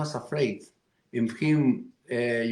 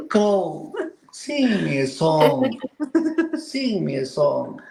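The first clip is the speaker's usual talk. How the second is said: overacted awe. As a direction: swoon over the crow with laughter. Coyote overwhelmed by beauty.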